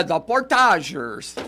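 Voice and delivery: Portagers as por-TAH-zhers; Frenchified Portagers, stress on TAH; French-style pronunciation. Retold or imitated. Confirming the French-style name.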